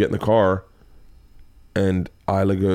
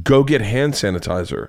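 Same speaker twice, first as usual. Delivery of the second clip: slow, spaced-out dad command; firm repeated order; slower than usual. Retold or imitated. Dad insisting after daughter balks, slow and firm. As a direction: imitate a dad spelling out an order.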